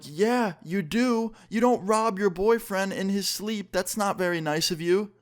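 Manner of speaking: high-pitched indignant telling-off; retold scolding. Scolds girlfriend caught robbing him.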